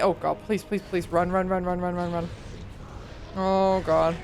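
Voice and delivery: hushed frantic pleading; breathless scared whisper-run chant; terrified horror victim. Real, not acted. Fleeing monster in terror.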